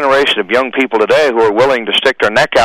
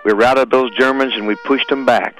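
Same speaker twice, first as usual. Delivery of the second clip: solemn, measured poem reading over music; poem recitation. Acted. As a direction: recite it like a memorial tribute.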